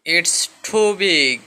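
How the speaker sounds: very slow, careful English phrase; slow model sentence; slow teaching model. Shown as a demonstration. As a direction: say it slowly for the class. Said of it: "অনেক বড়".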